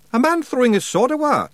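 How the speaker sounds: a loud Scots yell; Rob yelling. Acted. Pictsie chief yelling at the boy who threw his sword away. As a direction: shout it out in the pictsie voice. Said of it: "yelled Rob".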